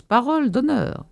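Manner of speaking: high-pitched pledge to a crowd; crying out. A narrator's reading. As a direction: call the promise down, without full shout. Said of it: "cria d'en haut le maire de toutes ses forces". (promesse lancée d'une voix haute)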